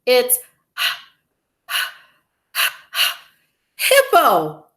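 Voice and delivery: gasps, then a loud, high burst; pant, then blurt the last word; breathless with laughter. A narrator's reading. Rhino gasps out his silly name.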